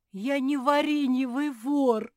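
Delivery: high, loud, drawn-out cheer; overjoyed bear cub. A narrator's reading. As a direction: crow it out with delight. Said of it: "обрадовался медвежонок".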